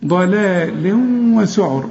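ضلال وسعر slow, nun nasalized into the waw; with ghunna. Shown as a demonstration. Teacher demonstrates nasal merging to the student. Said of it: "هنا في غنة".

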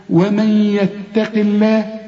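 ومن يتق الله drawn slowly; slow recitation. Shown as a demonstration. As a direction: chant it slowly.

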